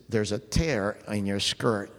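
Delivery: low, slow imitated Greek accent. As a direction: lean in close and say it in a Greek accent, as if nobody could hear. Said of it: "in his Greek accent, he leaned real close to her".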